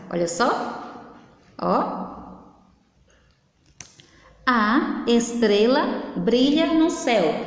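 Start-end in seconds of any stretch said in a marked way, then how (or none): 4.5-7.5 slow example reading. Shown as a demonstration. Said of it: "Eu disse que a estrela brilha no céu e ponto".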